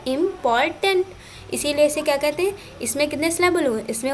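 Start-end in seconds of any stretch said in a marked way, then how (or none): 0.1-1.1 इम्पॉर्टेंट in three beats, "im, por, tant", pitched higher; split into syllables. Shown as a demonstration. Teacher recapping for students, इम्पॉर्टेंट parted higher as im, por, tant. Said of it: "तोड़ना पड़ता है".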